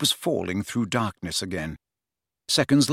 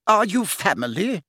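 high-pitched matron's question; 8 semitones higher than usual. A narrator's reading. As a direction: quiz the visitor in a higher voice.

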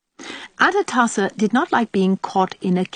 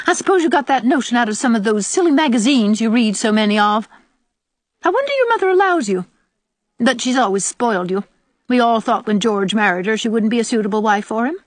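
put-on high, loud, scolding old woman; scornful old aunt; 5 semitones higher, 4 dB louder than usual. Old aunt scolding Diana over silly magazines, scornful. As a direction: scold the girl and her mother, high and disapproving.

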